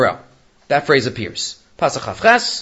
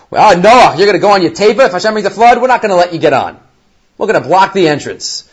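louder, defiant jeering at Noach; mock taunt; 3 semitones higher, 4 dB louder than usual. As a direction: throw the threat at him like a bully. Taunting generation of the flood.

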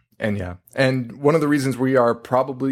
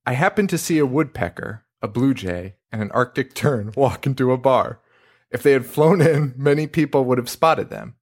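reading aloud. Shown as a demonstration. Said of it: "let me just read this to you".

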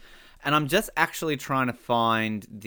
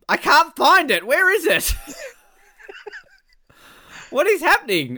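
frantic; 5 dB louder than usual. Real, not acted. Frantic search for review.

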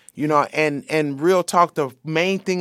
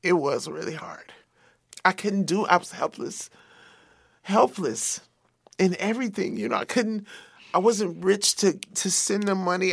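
fighting tears, voice going soft and unvoiced; real grief held in, near crying; holding back tears; 2 semitones higher, 4 dB quieter than usual. Real, not acted. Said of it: "Oh, I'm trying not to cry now".

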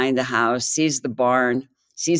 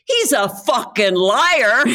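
high, slow, loud denunciation; scornful punchline; 6 semitones higher, 4 dB louder, much slower than usual. Acted. Farmer denouncing his talking dog, scornful. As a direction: land the punchline slowly, pitched up and scornful.

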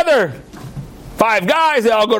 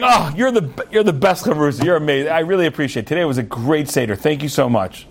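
warm gratitude; 4 semitones lower than usual. Acted. Study partners making up warmly.

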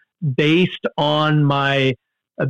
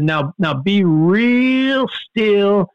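a hint of a soothing snake charmer; calm warning. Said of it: "the guy came over and said".

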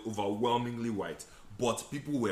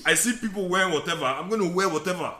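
high, louder, laughing; laughing defiance; 7 semitones higher, 5 dB louder than usual. Retold or imitated. Explaining his Nigerian clothes, laughing and defiant. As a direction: laugh through the bold excuse. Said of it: "'Cause I was like".

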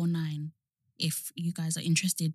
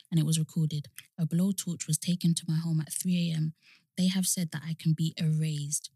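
reading aloud; 2 semitones lower than usual. Acted. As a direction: read the notice out solemnly. Reads out a window notice.

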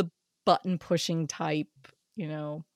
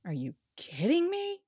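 exasperated; 5 semitones higher, 3 dB louder than usual. Retold or imitated. Exasperated mock scolding of husband.

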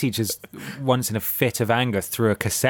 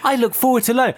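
mock eager child; 13 semitones higher, 4 dB louder than usual.

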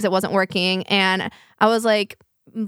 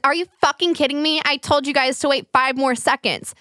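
imitating an aggressive stranger, pitched up; 5 semitones higher than usual. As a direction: snap it like a fed-up woman being quoted. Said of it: "she's just being really aggressive".

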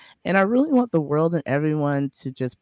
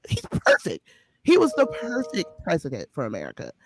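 mock gushing praise. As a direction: gush sarcastically about the president.

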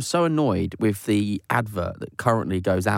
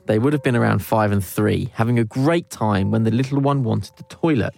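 reading a confession. Acted. Host reading a listener's confession out, in an unhurried read-aloud voice.

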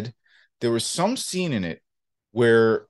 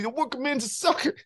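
mock quote; 13 semitones higher, 4 dB quieter than usual. Impression of a friend's saying.

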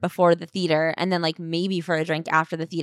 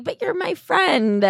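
doting friend; 9 semitones higher, slower than usual. Retold or imitated. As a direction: coo it like to a silly pet. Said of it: "I keep being like".

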